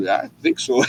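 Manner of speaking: whispered shy reply. Retold or imitated. Unsure reply to girlfriend's question.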